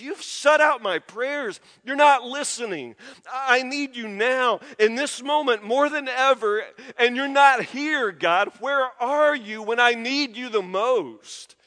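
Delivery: insistent, pressing plea to God; anguished prophet's complaint. Acted. Preacher voicing the prophet pleading with God, anguished. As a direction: cry out the accusation, drawing out the last question. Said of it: "exactly what the prophet feels in Lamentations".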